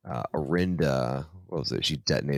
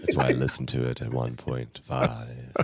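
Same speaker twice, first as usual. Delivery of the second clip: Thrawn; 2 semitones lower than usual. Acted. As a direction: keep the ponderous character voice going, word by word. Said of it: "He talks like this always".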